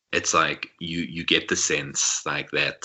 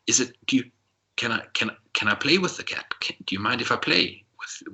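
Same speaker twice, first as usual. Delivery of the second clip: shy eager giant; 7 semitones higher than usual. Acted. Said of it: "looks at his feet, embarrassed".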